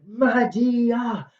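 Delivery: high, drawn-out cry of her name; mock scream. Jason screams for Medea, high mock scream. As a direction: wail the name up high, acting it out. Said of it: "he's screaming for her".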